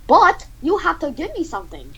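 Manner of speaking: high, pleading caricature; high-pitched comic demand; Gordon Ramsay. Acted. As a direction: insist in a high put-on voice. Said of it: "Gordon Ramsay says".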